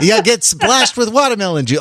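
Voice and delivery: put-on accent sliding towards Russian; accent drifting Russian. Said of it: "All my accents end up Russian".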